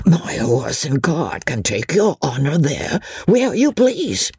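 servile peddler, rising high at the end; eager old peddler. Acted. Old peddler offering Chauvelin his cart, eager and servile. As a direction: offer your service in a lifted, humble voice.

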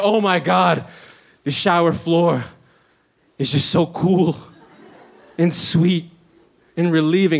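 acted woozy bliss, lingering on the words; blissful relief. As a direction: savor each phrase with long pauses. Acts out blissful collapse on floor.

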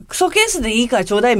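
quick, slightly scornful, with a rise on ケース; dismissive request. Retold or imitated. Paraphrasing the classmate's scornful tone, fast and dismissive. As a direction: sneer at クソケース as if it were junk. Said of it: "みたいな感じのテンションで".

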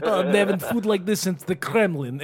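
put-on Russian accent. Parents voicing their little girl's thoughts, Russian accent. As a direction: play it as a mock Russian. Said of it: "talk to her as she's a Russian".

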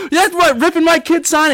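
high, laughing mock yell; mock angry dad. Dad pounding the mascot, laughing mock yell. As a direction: yell it while laughing at the memory. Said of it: "my dad is".

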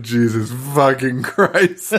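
slow, lightly voiced exasperated dad; mock fatherly exasperation. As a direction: drag it out like a fed-up dad. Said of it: "that's how your dad speaks".

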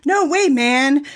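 playful, drawn-out shout; mild mock shout. A narrator's reading. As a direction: call it out without meaning it. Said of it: "Noah shouts at Ronan".

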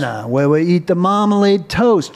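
mock Southern accent. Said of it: "more of an emphasis on the accent".

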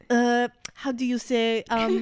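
slow, hesitant word-hunting; searching for words. Retold or imitated. Frenchman trying to explain the holiday, slow and searching. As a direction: imitate someone stuck for the English word. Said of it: "He was trying to explain to us".

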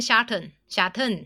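shuttle 念成 shutto，结尾的 L 不发; slow shuttle with the final L dropped; imitating Thai accent. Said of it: "后面有个L". (模仿泰式口音念 shuttle)

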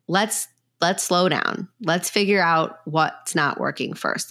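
slow, measured advice; unhurried, deliberate counsel. Acted. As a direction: ease the listener off the rush. Voicing helpful people urging patience.

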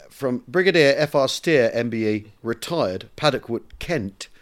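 measured, deliberate storytelling read; letter read aloud. Acted. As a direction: read an old letter to an audience.

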